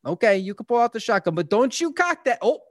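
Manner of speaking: lightly voiced scolding from the car; mock warning. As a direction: pitch climbing with each futile warning. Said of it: "sitting in the car, be like".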